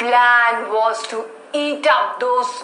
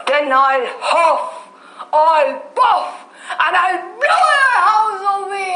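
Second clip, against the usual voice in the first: wolf threat; 5 semitones higher than usual. Acted.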